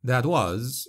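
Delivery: usual speaking voice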